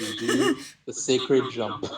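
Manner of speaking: slow, mock-solemn reveal; grand finale. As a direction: stretch it out like a sacred rite. Mock-grand end to long description.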